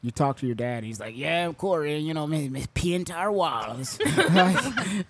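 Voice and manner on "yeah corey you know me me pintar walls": put-on Jamaican accent. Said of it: "with a thick Jamaican accent".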